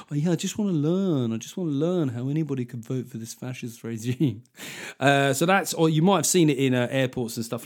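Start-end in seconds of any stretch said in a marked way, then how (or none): 0.1-4.4 mock centrist dad. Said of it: "centrist dads".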